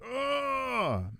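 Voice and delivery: frustrated groan. Retold or imitated. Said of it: "we were all like".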